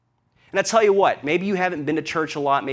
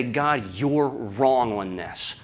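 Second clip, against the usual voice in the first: stubborn Jonah; 5 semitones lower, much slower than usual. Acted. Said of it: "comfortable to say".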